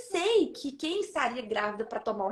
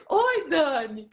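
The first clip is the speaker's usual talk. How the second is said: slow drawn-out hello; 4 dB louder, much slower than usual. Retold or imitated. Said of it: "ela atendeu assim".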